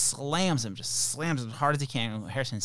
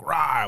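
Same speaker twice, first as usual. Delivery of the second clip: put-on a short, louder kid's rah roar; mock dragon roar; 3 semitones higher, 7 dB louder than usual. Mom imitating her kids playing dragons, mock roar. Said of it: "making dragon sounds like".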